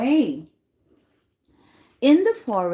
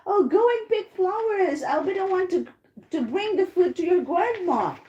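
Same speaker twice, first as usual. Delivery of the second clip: higher-pitched wolf voice for a story; coaxing storybook wolf; 6 semitones higher than usual. Acted. Ugly wolf sends the girl to pick flowers, lightly coaxing. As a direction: lightly act a wolf sending a child off. Wolf tricks Red Riding Hood.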